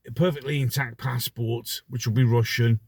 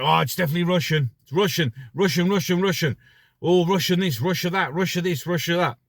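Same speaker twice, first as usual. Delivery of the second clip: mocking repetition; 4 semitones higher than usual. Mocking media's Russia claims.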